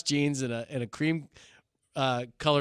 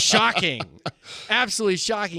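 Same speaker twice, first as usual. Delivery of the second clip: higher, louder mock shock; dripping sarcasm; sarcastic; 7 semitones higher, 4 dB louder than usual. Pastor mocking the car renter, loud sarcastic shock.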